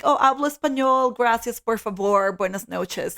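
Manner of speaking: a touch of a proud tourist showing off Spanish; lightly hammed-up tourist Spanish; mock clueless gringo. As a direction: mimic a smug expat reciting stock phrases. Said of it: "these men come to this country being like".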